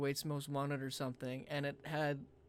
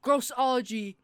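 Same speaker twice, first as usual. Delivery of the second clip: loud, high, stunned deduction; dramatic revelation; 8 semitones higher, 12 dB louder, slower than usual. Real, not acted. Friend drawing an absurd conclusion, loud dramatic shock. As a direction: build up a huge reveal.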